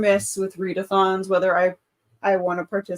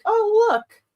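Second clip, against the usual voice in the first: high, louder mock discovery; excited recognition; 13 semitones higher, 5 dB louder than usual. Viewer rewatching old shows spots an actor, high and excited. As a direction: exclaim high, as if spotting someone you know.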